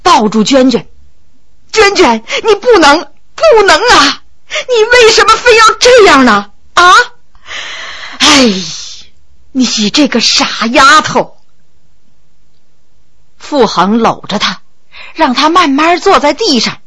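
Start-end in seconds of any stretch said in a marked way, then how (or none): 1.7-11.4 high tearful pleading, breaking; sobbing plea. Acted. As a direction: plead through tears. Lover sobs over dying girl.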